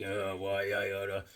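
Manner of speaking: grumbling comic character. Retold or imitated. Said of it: "He's like".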